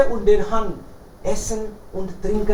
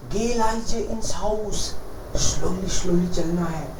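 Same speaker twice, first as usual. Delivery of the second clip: quiet order; 3 semitones lower, 5 dB quieter than usual. Acted. The chief quietly orders Jaromir into the dark house. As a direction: send him in softly.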